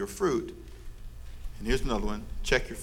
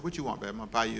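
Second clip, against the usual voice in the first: tender question; 5 semitones lower, 9 dB quieter, much faster than usual. Retold or imitated. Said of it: "I said".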